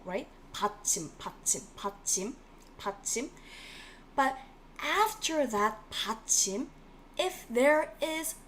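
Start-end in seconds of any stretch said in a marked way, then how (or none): 0.5-3.3 받침 drilled fast and softer, bat-chim; Korean word 받침. Shown as a demonstration. Teacher drilling 받침 for students to repeat. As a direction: chant 받침 quickly for the class. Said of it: "받침 is the final consonant".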